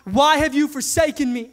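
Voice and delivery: understated retold anguished cry. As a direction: lift it up as a pained cry to God. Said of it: "he's crying out to God".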